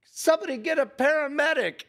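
imitated movie shout, high and fast; mock shout. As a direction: yell it in a hammed-up panic. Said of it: "somebody shouts".

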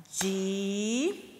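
Di-a-man-te split into four slow claps; syllable by syllable. Shown as a demonstration. Teacher clapping out syllables for the children. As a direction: clap out each syllable of Di-a-man-te. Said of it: "Vamos falar a palavra bem devagar".

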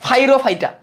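ফাইরোফাইটা drawn out as "fai-ro-fai-ta"; altered pronunciation. Shown as a demonstration. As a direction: open ফাইরোফাইটা with an F sound. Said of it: "মানে এইভাবে উচ্চারণ করি".

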